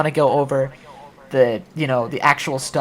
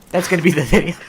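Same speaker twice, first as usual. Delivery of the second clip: whispered aside; breathy conspiratorial whisper; 3 dB louder, faster than usual. Real, not acted. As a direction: drop to a whisper for the punchline. Whispered aside after ding.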